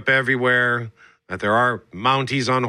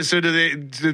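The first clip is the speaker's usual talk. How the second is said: ordinary delivery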